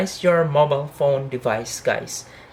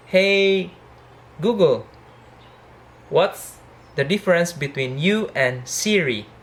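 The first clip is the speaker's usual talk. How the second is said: voice command; 4 semitones higher than usual. Real, not acted. Talking to voice assistant.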